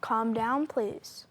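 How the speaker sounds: soft, low plea to settle down; restrained request. Acted. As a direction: keep it down, placating the guest. Anchor tries to settle angry guest.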